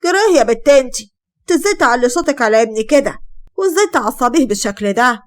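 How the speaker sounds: a mother-in-law snaps at her son's wife; angry scolding. Acted. Mother-in-law scolds the bride, angry and sharp. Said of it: "وقالت وهي متعصبة".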